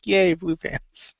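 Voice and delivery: high, drawn-out little yay; mock cheer. Fan recalls reacting to the crowd's chant, mock cheer. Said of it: "I was like".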